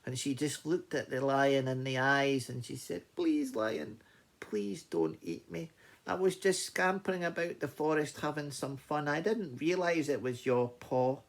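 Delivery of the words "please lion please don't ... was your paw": higher-voiced little mouse begging; pleading mouse. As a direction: plead in a small creature's higher voice. Mouse begs the lion.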